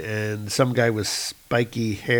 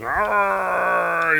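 monster roar; 7 semitones higher than usual. Acted. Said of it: "he's kind of going".

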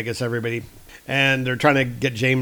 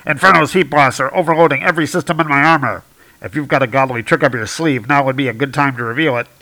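louder, fast urgent plea; urgent Iron Man; 6 dB louder, faster than usual. Retold or imitated. Iron Man asks Thor for help under fire, loud and fast. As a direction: rush it out mid-battle.

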